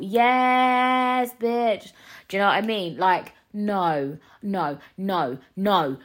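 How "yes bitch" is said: louder, higher sassy yes bitch; hyped approval. Retold or imitated. Cheering a TikTok quote to listeners, sassy and loud. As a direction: cheer it like a hype girl. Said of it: "And I thought".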